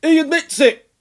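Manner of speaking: loud, high triumphant roar. A narrator's reading. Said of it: "roared the Colonel".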